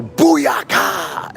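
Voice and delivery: jump cry. Retold or imitated. Yelled while jumping off bridge.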